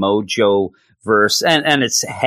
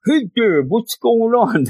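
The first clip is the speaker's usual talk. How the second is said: garbled speech; 11 semitones higher than usual. Acted. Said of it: "They can't say things right".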